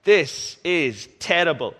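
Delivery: nitpick the room, then blow up over the edges; fussy inspecting parent. Pretend. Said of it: "and you go".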